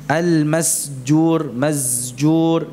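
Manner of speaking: Al-masjur with sin blended into zai, slow; wrong masjur. Shown as a demonstration. Teacher demonstrates the mixing error in masjur. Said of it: "Mencampur suara sin dengan zai".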